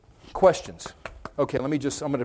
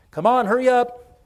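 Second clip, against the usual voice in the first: higher, coaxing call to the dog; hurry-up urging; 6 semitones higher, 4 dB louder than usual. Retold or imitated. Preacher urging his dog to hurry outside, coaxing. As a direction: hurry the dog along, eager.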